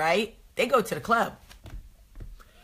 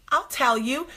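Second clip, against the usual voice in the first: put-on sweet, higher, poised kid voice; composed little girl; 5 semitones higher than usual. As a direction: say it primly like an innocent child. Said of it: "composes herself, big blue eyes".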